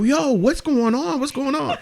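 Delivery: high, slow, laughing mock boss; the baffled supervisor checking in, laughing; confused boss. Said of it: "my supervisor come out like".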